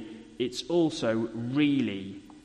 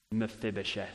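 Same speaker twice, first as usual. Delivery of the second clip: kind, gentle; 5 semitones lower, 6 dB quieter than usual. Acted. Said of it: "said in a wonderfully kind voice".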